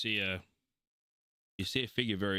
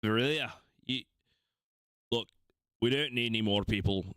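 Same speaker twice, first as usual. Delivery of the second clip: bad Australian accent; 3 semitones higher, faster than usual. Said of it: "really bad Australian".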